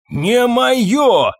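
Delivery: high, loud, enraged denial; furious. A narrator's reading. Fabien snapping at the stableman about the watch, furious. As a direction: bark it back in a rage. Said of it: "рассвирепел Фабьен".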